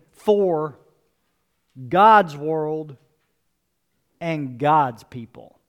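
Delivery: slow, weighted "God's world" and "God's people"; stress on God's. Shown as a demonstration. Pastor stressing whose world it is, slow and weighted. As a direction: lean on each "God's". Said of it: "Notice I said for his world and for his people".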